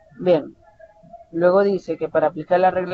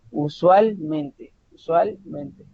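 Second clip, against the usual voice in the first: "usualmente" drawn out as usual... mente, both parts accented; double stress; much slower than usual. Shown as a demonstration. Teacher demonstrating pronunciation to students, "usualmente" slowly with two separate stresses. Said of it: "ahí se escucha como el conjugado".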